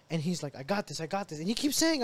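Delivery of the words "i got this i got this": soft, unworried reassurance; calm. Retold or imitated. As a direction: imitate a brother coolly brushing off danger. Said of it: "He's calm as can be".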